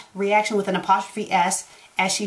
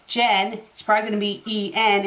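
ordinary delivery

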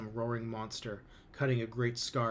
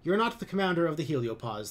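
higher, louder firm objection; 6 semitones higher, 7 dB louder than usual. A narrator's reading. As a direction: stand your ground and correct him. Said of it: "they say firmly".

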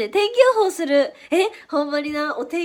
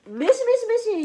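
higher squeaky mock creak; imitated creaking noise; 8 semitones higher than usual. Streamer imitating her hair clip slipping, squeaky mock sound. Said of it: "言うわけよ".

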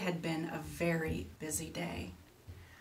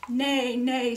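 higher, louder NAY-NAY as a horse; horse's neigh; 4 semitones higher, 7 dB louder than usual. A narrator's reading. Storyteller voices a horse for children, loud neighing words. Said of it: "said the horse".

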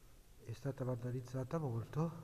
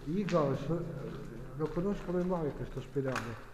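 raised voice in an empty building; loud; 3 semitones higher, 6 dB louder than usual. Real, not acted. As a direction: call it out loud. Exploring an abandoned hospital, calling out.

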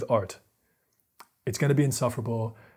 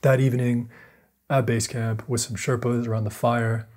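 dramatic story narration. Acted. Vlogger telling Chouinard's climb, dramatic narration. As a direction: tell it like a mountain survival film trailer.

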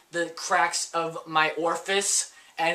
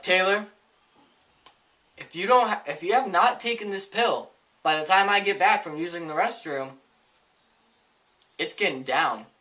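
annoyed mom. Retold or imitated. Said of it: "My mom is kind of annoyed at this point".

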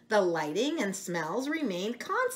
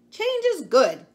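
much higher, louder hen voice; clucking hen; 10 semitones higher, 10 dB louder than usual. Acted. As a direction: cluck it out like a cheerful chicken. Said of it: "clucked Carla the chicken".

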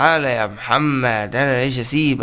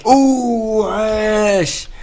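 excited cheer; 7 semitones higher, much slower than usual. Real, not acted. Cheering a teammate's good play.

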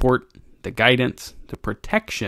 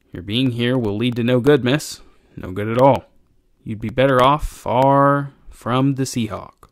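lightly voiced old sailor, foreboding; a hint of a grave old deckhand; cringing old sailor, warning.

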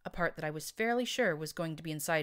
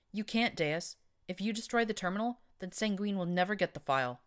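higher, louder pleading protest; nervous unicorn; 5 semitones higher, 3 dB louder than usual. Acted. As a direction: object anxiously, voice pitched up.

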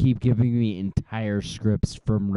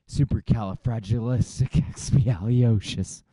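supercalifragilisticexpialiosis in a put-on voice. Shown as a demonstration. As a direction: say supercalifragilisticexpialiosis in character. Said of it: "I could do it in my real voice".

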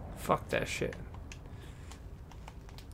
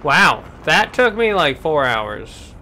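amazed relief; 7 dB louder, slower than usual. Real, not acted. Relief after a long struggle.

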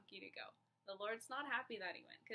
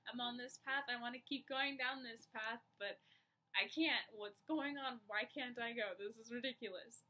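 louder, higher exasperated complaint; frustrated outburst; 3 semitones higher, 6 dB louder than usual. Retold or imitated. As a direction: vent the frustration of being stopped. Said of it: "I was really frustrated".

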